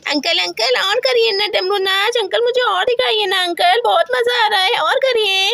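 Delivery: put-on lightly childish begging; a hint of a whimpering kid; pleading child. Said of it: "मैं कहती हूँ".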